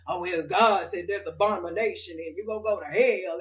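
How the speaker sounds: a hint of a preachy, judging relative; lightly mock the condemning voice; judgy relative.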